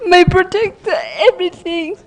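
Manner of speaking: ordinary delivery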